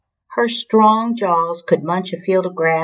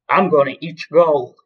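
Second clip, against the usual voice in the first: lightly voiced rude elephant; bully's announcement; 3 dB louder than usual. A narrator's reading. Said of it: "he announced".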